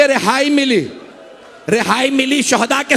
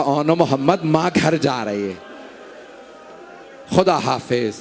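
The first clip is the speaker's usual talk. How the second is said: hushed, lower farewell to a son; soft voice; 8 semitones lower, 5 dB quieter than usual. A narrator's reading. Mother bids her dead son goodbye, softly and low. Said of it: "एक धीमे आवाज में कहा".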